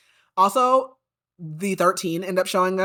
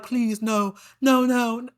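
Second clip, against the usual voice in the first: retelling Lorcan's begging in a higher, pleading voice; groveling plea; 5 semitones higher, slower than usual. Retold or imitated. Lorcan begging Maeve not to take him, pleading. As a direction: mock-desperate "no, no", rising. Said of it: "Lorcan is groveling, begging, crying".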